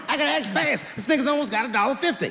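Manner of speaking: urgent panicked yelling; frantic shout. Acted. Panicked inner voice.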